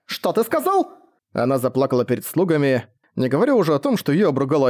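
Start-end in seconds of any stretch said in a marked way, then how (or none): 0.1-0.9 sharply higher, outraged question; can't believe he said that; offended shriek of disbelief; indignant surprise. Acted. Indignant reaction to insult.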